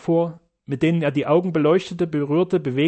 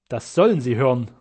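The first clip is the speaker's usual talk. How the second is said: calm; 3 semitones lower than usual. Acted. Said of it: "antwortete Sternau gelassen".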